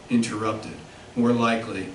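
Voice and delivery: measured literary reading, phrase by phrase; poetry reading. Acted. Poet reads a filling station poem to an audience, measured poetry reading. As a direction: read the poem deliberately, pausing at line breaks.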